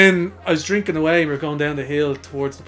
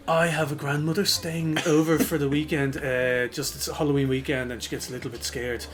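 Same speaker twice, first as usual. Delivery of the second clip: lightly put-on posh caller, softer; a hint of a posh gentleman on the phone; 6 dB quieter than usual. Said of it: "put on my poshest voice ever".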